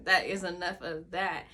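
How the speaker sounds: said through a laugh. Retold or imitated. Speaker repeating her pudding line, laughing. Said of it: "I was like".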